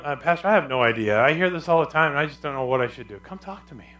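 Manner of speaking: normal talking voice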